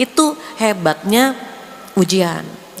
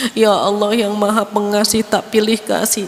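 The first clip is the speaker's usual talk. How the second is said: poetic prayer. Retold or imitated. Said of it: "bisa puitis".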